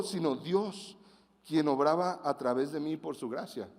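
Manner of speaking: lectura bíblica pausada y solemne; scripture reading. Acted. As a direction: leer la Escritura con reverencia. Lee el pasaje bíblico. (lectura solemne del pasaje de Corintios)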